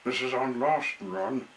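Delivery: calls out the line with energy; proud last run call; loud announcement. Acted. Mister Woody tells his son, calling out loudly.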